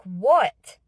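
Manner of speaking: loud, rising, baffled "what"; startled wake-up. Retold or imitated. Little kid woken up in the dark, startled. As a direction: blurt it out, jolted from sleep.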